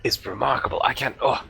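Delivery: choked-up, awed scholar; overcome with emotion. Acted. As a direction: voice catching with wonder. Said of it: "He's overcome".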